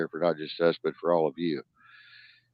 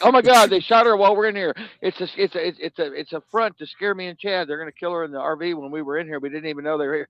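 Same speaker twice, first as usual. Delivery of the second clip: panicked self-quote; 10 semitones higher, 5 dB louder than usual. Retold or imitated.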